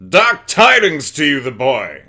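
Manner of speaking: loud, high feral vampire snarl; hissing feral vampire. Acted. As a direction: hiss it out like a feral beast. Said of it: "that's the only other one I can do".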